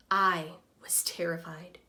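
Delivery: hushed, frightened whisper; scared whisper. Acted. Humpty admitting his fear while climbing, whispered and afraid. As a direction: breathe it out like a scared confession.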